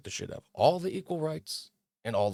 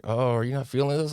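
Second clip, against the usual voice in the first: imitating the woman; 5 semitones higher, 4 dB louder than usual. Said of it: "is like".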